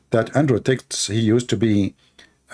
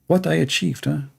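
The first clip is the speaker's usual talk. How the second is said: mock whine; 4 semitones higher than usual. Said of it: "And he is wondering".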